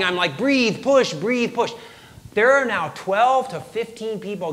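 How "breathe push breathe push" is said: mock yell of urgent coaching; retold frantic birth commands, higher than usual. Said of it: "I start yelling".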